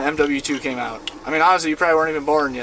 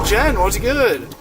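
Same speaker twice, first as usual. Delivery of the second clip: friendly greeting; 5 semitones higher, 3 dB louder, slower than usual. Retold or imitated. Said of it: "he had a punchline that he always used to say".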